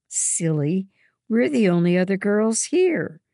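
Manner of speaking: loud, high angry scold; a girl shouting at her friends furiously. A narrator's reading. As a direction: snap at her friend in fury. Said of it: "Hannah says furiously".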